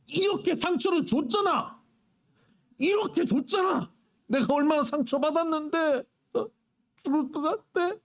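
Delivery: high nagging whine of a self-pitier; whiny mock complaint. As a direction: parody someone wailing about being hurt. Mocking a self-pitying complainer.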